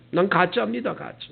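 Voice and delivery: broken sobbing whisper. Retold or imitated. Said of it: "막 울면서 그냥 통곡하고".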